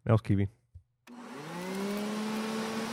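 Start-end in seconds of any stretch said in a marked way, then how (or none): 1.7-2.9 ominous voice. Acted. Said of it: "an ominous thing there".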